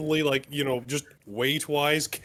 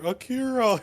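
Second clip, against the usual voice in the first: higher-pitched mock cry; screamed name in head; 8 semitones higher, 3 dB louder than usual. Player hears a psychic scream, crying a name. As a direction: call the name out high. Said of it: "in my head and I start screaming".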